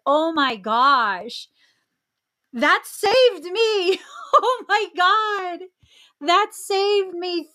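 slow, high laughing realization; laughing relief. Real, not acted. Host recalling escape, slow high laughing relief. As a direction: laugh through the relief slowly.

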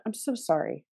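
soft, low consoling words; tender sympathy. Retold or imitated. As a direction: act out a hushed, heartfelt condolence. Retold consoling hug and apology.

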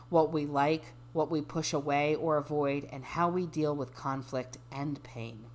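measured, even reading voice; reading aloud. Acted. Reading a dating bio to a friend, measured reading voice. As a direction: read it out evenly, settling down at sentence ends.

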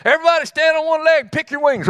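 hammed-up chicken boss shouting orders; excited command. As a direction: rattle off the order to the flock. Chicken leader calls out command.

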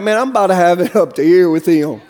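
low-pitched, mildly exasperated aside; fed-up God. Acted. God looking down at his people, mildly fed up. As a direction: lightly play someone nearly out of patience. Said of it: "sometimes God, when he looks up, he's like".

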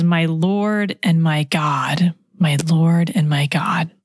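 hushed, slow whisper of adoration; awed whisper. Acted. Preacher voicing Thomas's confession in an awed whisper. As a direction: breathe it out like a prayer.

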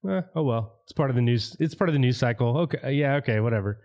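shrugging, bored mock reaction; mock indifference. Mimicking the public shrugging off the Pentagon videos, mock indifference. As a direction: toss it off like old news, lightly mimicked. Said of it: "And our reaction is".

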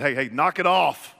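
loud, firm interruption; acted demand. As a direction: cut off an argument with a sudden bark. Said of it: "Jesus demanded".

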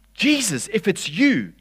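high-pitched call to someone ahead. Acted. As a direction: call out over the waves. Peter calling over the waves.

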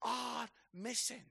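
hushed, gentle plea; God asking quietly for help; a softly voiced God pleading for help to find his lost children. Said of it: "God comes to us today and he's like".

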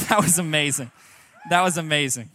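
loud, thrilled exclamation; excited shout. Real, not acted. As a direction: cheer the crowd's answer loudly. Reacting to the crowd's response.

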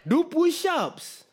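very high, slow mock command; barked order. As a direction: drag out the order like a drill cop. Voicing police ordering push-ups.

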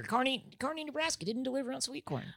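high, hammed-up sad complaint; comic high lament, half-joking; mock lament. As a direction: mourn the missing sweet corn dramatically. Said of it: "Very sad".

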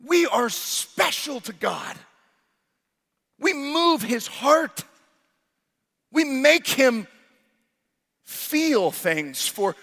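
slow, lifted, each word weighed; slow emphatic preaching. Real, not acted. Preacher telling the church they move God, slow and lifted. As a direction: let every word land slowly. Preacher lingering on God's love.

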